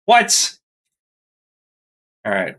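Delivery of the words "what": shocked high what; surprised. Real, not acted. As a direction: blurt it out in disbelief. Player hears minus ten to dodge.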